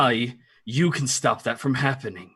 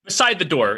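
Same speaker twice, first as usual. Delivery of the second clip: "Beside" pitched high and punched; "Beside" starts high, then falls away; clarifying emphasis; 5 semitones higher, 4 dB louder than usual. Real, not acted. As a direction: lean hard on "Beside" to clarify. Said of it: "in case I didn't make that clear".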